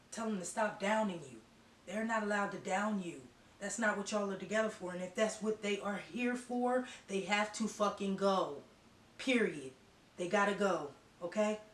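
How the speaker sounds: fired up, telling them they have to go; getting emotional. Real, not acted. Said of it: "I'm getting a little emotional".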